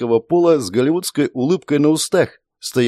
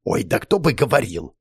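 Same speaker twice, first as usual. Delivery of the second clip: grumbled. A narrator's reading. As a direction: grumble it under your breath. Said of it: "недовольно буркнул Акира". (недовольно буркнуть)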